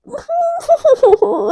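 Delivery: mock pained moan. Wordless moan after the fall.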